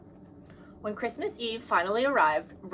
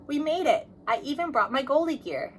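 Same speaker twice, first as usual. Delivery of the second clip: calling out; 6 semitones higher than usual. Acted. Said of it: "Kim called out".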